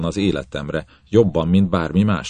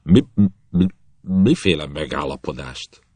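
a touch of a shocked stammer; captain stammering in shock. Acted. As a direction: trip over the first word. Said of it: "megbotlott a nyelve".

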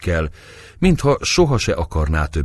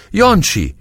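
desperate scream, far higher and louder; 6 dB louder than usual. A narrator's reading. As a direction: shriek the child's name in panic. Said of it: "kiáltotta".

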